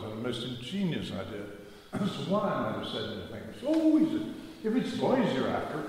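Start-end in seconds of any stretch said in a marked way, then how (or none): 3.5-5.8 mock accusing yell. Paddy's angry suspicious retort.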